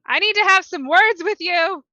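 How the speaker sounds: loud, high confrontational shout; angry daughter calling out; yelling. Acted. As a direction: yell it at full force as a demand. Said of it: "she's gonna yell".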